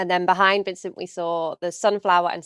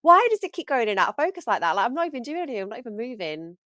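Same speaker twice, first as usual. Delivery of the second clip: retold annoyance; 5 semitones higher, faster than usual. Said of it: "I was like".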